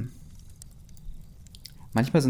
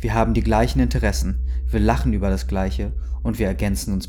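fed-up Jack; 3 dB louder than usual. Acted. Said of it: "sagte Jack".

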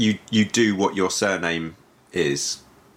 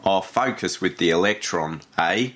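put-on New Zealand accent. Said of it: "You do a New Zealand accent".

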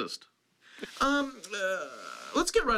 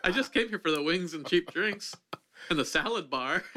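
laughing mock reply; 3 semitones higher than usual.

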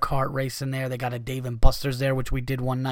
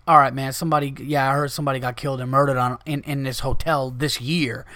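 casual shrug. Retold or imitated. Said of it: "he said it like you didn't know".

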